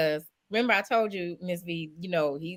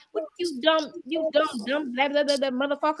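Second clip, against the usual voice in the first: harsh insult; 6 semitones higher than usual. Pretend. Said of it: "it's coming off".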